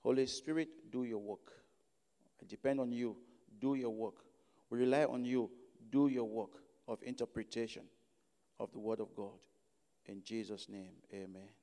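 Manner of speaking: low, hushed prayer with pauses between phrases. Real, not acted. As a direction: pray softly and low, phrase by phrase. Opening prayer before the sermon.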